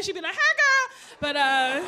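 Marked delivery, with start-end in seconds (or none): 0.4-1.0 very high, loud put-on girly voice; sassy car greeting. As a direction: squeal a mock greeting back.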